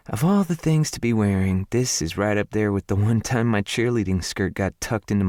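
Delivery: a Southern lady turning down help; lightly voiced southern woman. Her embarrassed story.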